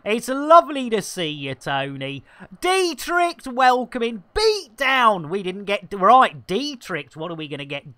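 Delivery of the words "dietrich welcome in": high-pitched welcome call; raised, eager host's welcome; greeting a viewer. Real, not acted. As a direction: sing out a hello to a newcomer. Greets arriving viewer by name.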